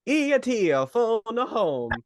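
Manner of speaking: slow, drawn-out alien croak; phone home like a little alien. Retold or imitated. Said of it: "I wanna do an E T noise".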